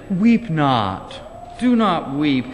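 gentle, polished "Weep not. Do not weep."; nice-sounding translation. Shown as a demonstration. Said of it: "we make it really nice sounding in our translation".

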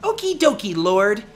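chirpy. Acted. Chirpy reply.

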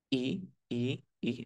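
"I" as a Spanish i, mouth nearly closed. Shown as a demonstration. Teacher shows the mouth position, "I" as Spanish ee. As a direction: hold the mouth narrow for a pure "I". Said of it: "Es una boca cerrada".

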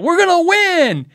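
high, loud slow cheer; fan yell. Retold or imitated. Loud customer cheering in the guitar shop, shouted. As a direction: belt it like a stadium chant. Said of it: "a dude can just scream in your store".

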